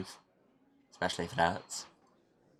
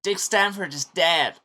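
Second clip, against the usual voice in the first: dramatic announcement; 6 semitones higher, 9 dB louder than usual. Acted. Committee speaker stops the show to announce a death, dramatic announcement.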